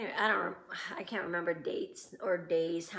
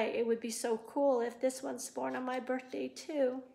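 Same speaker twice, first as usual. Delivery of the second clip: teary; 4 semitones higher than usual. Real, not acted. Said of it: "getting kinda teary about this".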